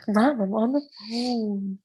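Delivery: slow, drawn-out protest to mom; put-on exasperated child; mock kid complaint. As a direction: stretch it into a playful whine. Playing kid interrupted by mom.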